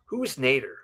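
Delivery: hushed, breathless whisper from mom; imitating mom in a whisper. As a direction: whisper it like a suspicious mother. Mom's suspicious question, voiced in story.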